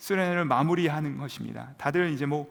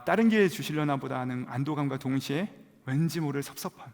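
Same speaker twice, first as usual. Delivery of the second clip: ordinary delivery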